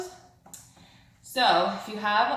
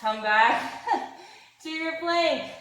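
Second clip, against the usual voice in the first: laughing; 5 semitones higher than usual. Real, not acted. Laughing while cueing plank.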